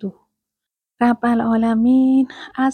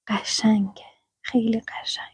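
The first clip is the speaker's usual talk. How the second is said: hushed admiration; 5 dB quieter, faster than usual. Real, not acted. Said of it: "admiring the verse".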